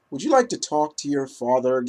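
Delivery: eerie villain. Retold or imitated. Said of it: "It comes off so eerie".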